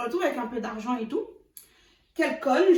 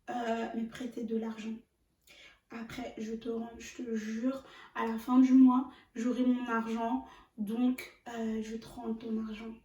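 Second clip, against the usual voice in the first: softer, hesitant little voice asking a favour; small timid voice; 7 dB quieter, slower than usual. Retold or imitated. Boyfriend begging her for a loan, in a meek little voice. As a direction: ask for money in a meek little voice, like him. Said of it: "j'ai fait la petite voix".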